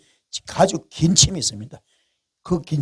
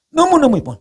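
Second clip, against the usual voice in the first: dazzled admiration; 11 semitones higher, 5 dB louder than usual. Retold or imitated. David admiring Uriah's wife.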